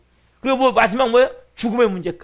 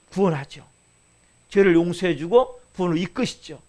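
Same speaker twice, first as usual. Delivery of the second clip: usual speaking voice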